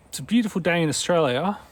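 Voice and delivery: put-on Australian accent, unhurried. Shown as a demonstration. Tries out the Australian phrase twice.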